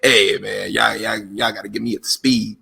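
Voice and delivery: Booker T. Retold or imitated. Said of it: "He sound like Booker T".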